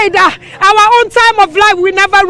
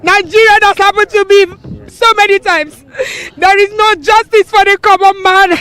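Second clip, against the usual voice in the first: speaking through real tears; crying. Real, not acted. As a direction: let the sob break into the words. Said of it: "That's why I'm crying".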